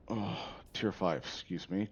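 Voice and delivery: talking with hiccups; hiccuping mid-sentence. Real, not acted. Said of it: "got the hiccups".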